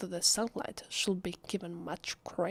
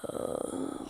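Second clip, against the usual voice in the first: low-key exasperated groan; weary groan. Acted. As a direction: groan to yourself in regret. Alone, regretting she came.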